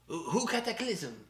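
"Cataclysm" in a mock French accent, said kat-a-KLIZ-em. Host joking to co-host, "Cataclysm" in mock French accent. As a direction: stretch "Who, who Cataclysm?" with a French lilt. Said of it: "with my French accent".

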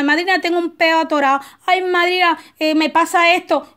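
mock whiny godchild. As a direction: imitate a clingy godchild begging for help. Ahijado pesado llamando a la madrina. (imitación de ahijado quejoso, algo más aguda)

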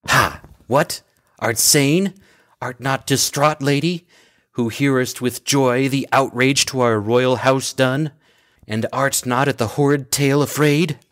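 aghast, can't believe her; shocked disbelief. Acted. Messenger shocked at Medea's joy.

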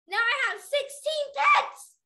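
high, loud, slow exclamation; squealing, drawn-out boast of delight; thrilled shout. Acted. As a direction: shout it out overjoyed. Bella thrilled about horses.

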